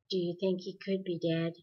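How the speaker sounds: flat, dry question without feeling; dry, unemotional. Acted. Calvin asks Meg, not looking at her, dryly. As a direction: hold all emotion back, keep it dry. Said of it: "in a dry, unemotional voice".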